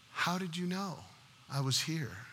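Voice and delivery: very soft, puzzled question; hushed bewilderment. Acted. Castaway to the rescuers on the ship, quietly puzzled.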